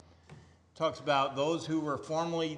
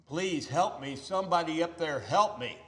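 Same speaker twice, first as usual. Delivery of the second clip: raised pleading cry, louder and higher; crying out for help; 4 semitones higher, 5 dB louder than usual. Retold or imitated. Man dangling from a branch calls for help, raised plea. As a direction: call up the cliff for help. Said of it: "he cries out".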